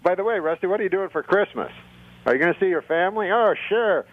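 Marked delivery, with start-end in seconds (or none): 3.3-4.0 higher dummy voice; puppet voice. Pretend. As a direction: deliver the joke as the dummy. The speaker voices dummy Rusty.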